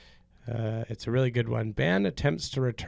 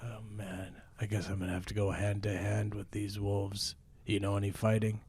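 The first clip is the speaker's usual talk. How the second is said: lightly played brave fighter, lower voice; a touch of a bold adventurer rallying his partner; understated action-hero voice; mild improv hero; 3 semitones lower than usual. Plays hero in wolf improv scene.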